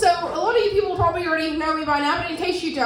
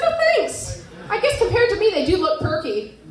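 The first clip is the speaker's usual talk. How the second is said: high, louder mock-grateful; sarcastic thanks, pitched up high; sarcastic, higher and louder; 4 semitones higher, 3 dB louder than usual. Self quoted, sarcastic thanks.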